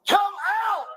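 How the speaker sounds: shouted command. Real, not acted. Officer ordering the suspect out, firm shout. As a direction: order him out firmly.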